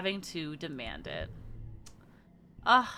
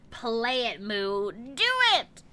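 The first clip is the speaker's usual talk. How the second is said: excited; 3 semitones higher, 4 dB louder, slower than usual. Real, not acted. Urging a friend excitedly.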